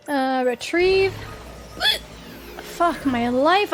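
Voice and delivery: slow words broken by hiccups; struggling through hiccups. Real, not acted. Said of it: "I'm really struggling right now with the hiccups".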